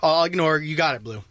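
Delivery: low, resigned acceptance; grudging compliance. Retold or imitated. Player placating the blue, grudging and low. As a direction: give in under your breath, pitched low.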